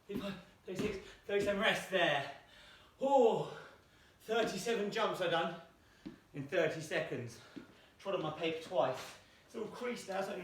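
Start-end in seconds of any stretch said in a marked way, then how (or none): 3.0-7.4 breathless pride. Real, not acted. Teacher announces her jump count, breathless and excited. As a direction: gasp it out, thrilled with the score. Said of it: "really got me out of breath".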